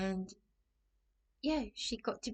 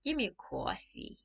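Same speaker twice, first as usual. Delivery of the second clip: put-on Brooklyn accent; 2 semitones higher than usual. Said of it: "I wanna be like you".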